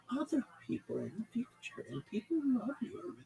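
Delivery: gently soothing, a touch lifted; calm host. Retold or imitated. Radio host calming the caller, gently soothing. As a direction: lightly comfort the caller. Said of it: "Just the calmest way".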